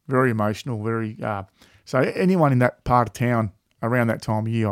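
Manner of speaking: ordinary talk, nothing marked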